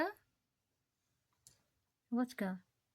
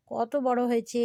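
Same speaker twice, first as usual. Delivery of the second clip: ordinary talk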